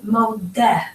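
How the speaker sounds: MODEH ending in an open EH; modeh, stressed on the final EH; masculine modeh. Shown as a demonstration. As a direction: say modeh with the last bit as a clear "eh". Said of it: "how you would say this word if you were a man".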